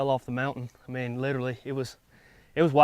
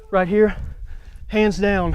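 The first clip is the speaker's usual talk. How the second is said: excited; 5 semitones higher, 5 dB louder, slower than usual. Real, not acted. Excited hunter after the kill.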